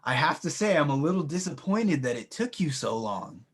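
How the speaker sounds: loud, mocking villain welcome; villain greeting. Villain mocking the late heroes, loud and sneering. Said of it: "he looks over and he says".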